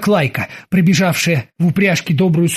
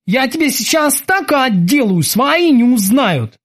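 angry threat; 8 semitones higher, slower than usual. Acted. Kiki threatening.

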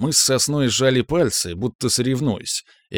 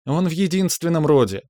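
high-pitched woman's exclamation; lively outburst, pitched well up; exclaiming; 7 semitones higher than usual. A narrator's reading. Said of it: "воскликнула она".

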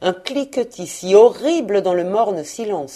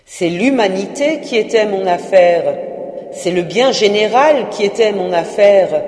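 Marley's ghost in louder, lifted lament; 2 semitones higher, 5 dB louder than usual. Acted. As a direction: preach his regret like a doomed spirit.

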